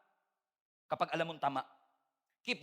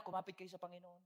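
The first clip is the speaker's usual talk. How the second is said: pastoral reassurance; 3 semitones lower than usual. Retold or imitated. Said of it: "ang sasabihin ko sa kanila".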